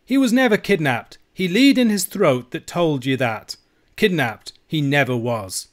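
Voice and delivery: high, loud denial, slowing and settling; indignant Scots outcry, coming down at the end; cried out. A narrator's reading. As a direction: protest hotly as the outraged old uncle. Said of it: "cried my uncle".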